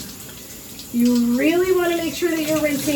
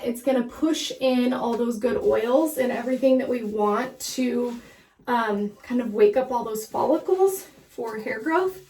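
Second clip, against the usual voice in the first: slightly winded while scrubbing; out of breath. Real, not acted. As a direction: talk a little out of breath. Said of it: "I don't know why I'm out of breath".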